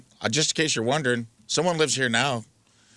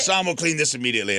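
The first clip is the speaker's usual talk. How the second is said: put-on a light Spanish accent, higher and quick; imitating a Spanish accent; 7 semitones higher, faster than usual. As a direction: mimic the neighbor's Spanish accent. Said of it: "it sounds like Antonio Banderas".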